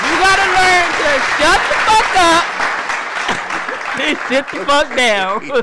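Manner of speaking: high, loud, laughing punchline. Real, not acted. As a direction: deliver it as a cheeky joke.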